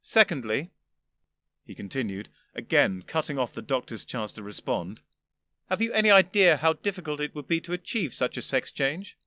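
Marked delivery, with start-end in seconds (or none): 0.0-0.7 higher, louder condescending elder gentleman; an old gentleman patiently explaining; lofty old Doctor. Acted. First doctor lecturing. 5.7-9.2 higher, louder condescending elder gentleman; an old gentleman patiently explaining; lofty old Doctor. Acted. First doctor lecturing.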